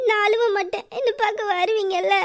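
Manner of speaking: half laughing through tears; crying laugh. Acted. Wife to husband, laughing through her tears. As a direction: laugh weakly while crying.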